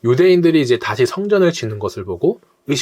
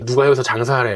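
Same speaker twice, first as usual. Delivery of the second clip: lightly imitated drama thug demand; mildly menacing challenge, like a TV gangster. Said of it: "막 그런 톤으로 얘기를 하곤 했는데". (옛날 드라마 깡패 톤을 가볍게 흉내)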